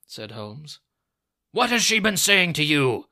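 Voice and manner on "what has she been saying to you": high, very loud furious shout; old man at full fury; furious scream. A narrator's reading. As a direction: scream the demand at them. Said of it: "screamed the old man furiously".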